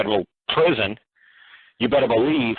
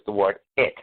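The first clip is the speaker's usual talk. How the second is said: "it" set apart and stressed, rising; emphasis on "it"; 4 semitones lower than usual. Shown as a demonstration. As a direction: lean on "it" as the key word. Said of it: "the way I emphasize".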